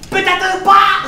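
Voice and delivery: high, drawn-out shouted kicker; punchline yell. Acted. Comic undercutting his own reassurance, yelled high. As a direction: burst out high and slow.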